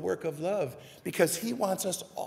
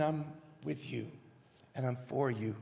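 soft, lowered, comforting voice; gentle reassurance; 4 semitones lower, 8 dB quieter than usual. Acted. Jesus promising to stand with us, gentle and soft. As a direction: reassure them tenderly, with pauses.

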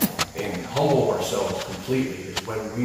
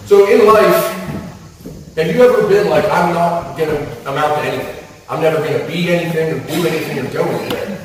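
loud, high, pleading preacher's cry; full-voiced sermon climb; impassioned preaching; 5 semitones higher, 7 dB louder than usual. Real, not acted. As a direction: lift the room with rising fervor. Preacher building to impassioned peak.

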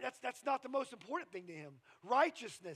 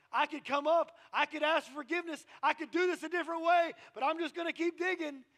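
stubborn; 7 semitones higher, 8 dB louder than usual. Acted. Acting out stubborn inner argument.

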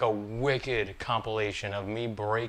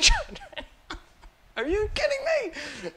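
laughing through words. Real, not acted.

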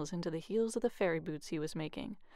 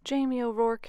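louder, higher call of his name; wife calling out; 4 semitones higher, 5 dB louder than usual. Acted. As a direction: call him in from the bed, a touch stern. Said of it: "his wife Eileen would say".

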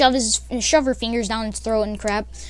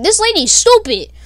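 louder, higher, through a laugh; laughing mock guys; 9 semitones higher, 8 dB louder than usual. Boys on the call mock the girl: laughing scoff. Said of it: "All the men were like".

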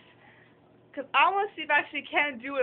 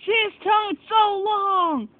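high, loud and slow squeal of delight; excited shriek; 8 semitones higher, 6 dB louder, slower than usual. Real, not acted. Girl gushing over her dog's long tongue, excited shriek.

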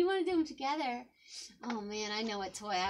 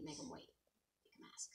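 hushed aside, much softer; quiet aside; 8 semitones lower, 23 dB quieter, faster than usual. Real, not acted. Aside to other adult, quiet.

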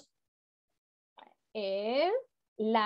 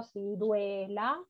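"ciruela" stretched out, slow; slow, careful teaching word; slow example word; 4 semitones lower, 5 dB quieter, much slower than usual. Shown as a demonstration. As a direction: drag "ciruela" out for the kids. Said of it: "Como por ejemplo".

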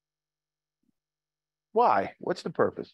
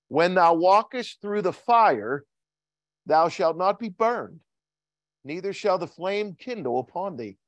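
solemn scripture recital; 3 semitones higher than usual. Shown as a demonstration. Preacher reciting the verse to the congregation, ringing. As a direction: let the verse ring out like a promise. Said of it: "What does it say?".

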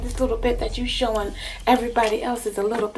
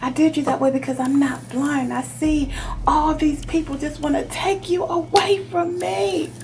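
lover's self-justifying protest, climbing in pitch; mounting plea in a jealous lover's role; acted hurt protest; 3 semitones higher than usual. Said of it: "This person's like".

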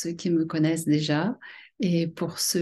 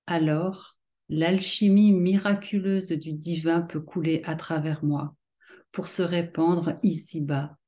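measured poem reading, phrase by phrase with pauses; poetry recitation. Acted. Poet sharing her own poem Étincelle divine with followers, measured recitation. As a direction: recite it line by line, letting each image land.

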